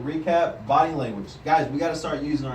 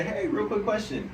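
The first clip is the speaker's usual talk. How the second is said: upbeat sales opener; 5 semitones higher than usual. Shown as a demonstration. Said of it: "you're gonna say".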